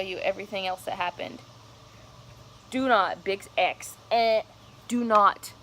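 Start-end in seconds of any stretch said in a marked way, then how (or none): 2.7-5.5 louder, insistent warning to viewers; loud, emphatic don't-do-this plea; urgent warning. Real, not acted.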